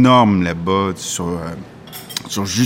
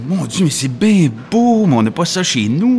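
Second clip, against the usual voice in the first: mock amazement; 9 semitones higher, 3 dB louder than usual. T'es là.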